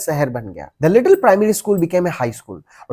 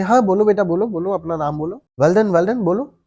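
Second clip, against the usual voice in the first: coaxing teacher; 2 semitones higher than usual. Acted. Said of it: "वो बोले".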